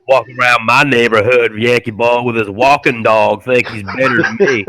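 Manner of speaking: lightly voiced Southern local; mock Southern grumble; grumbling Southern porch-sitter. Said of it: "someone sitting on his porch".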